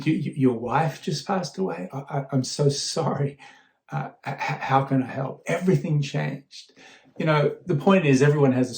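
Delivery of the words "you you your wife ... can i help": softer, gentle retold sympathy; hushed, caring condolence; compassionate. Businessman softly consoling the grieving father, tender. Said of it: "Suddenly I'm feeling such compassion".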